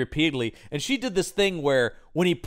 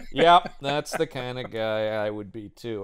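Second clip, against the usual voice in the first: laid-back imitation; 3 semitones lower, slower than usual. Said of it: "He was like".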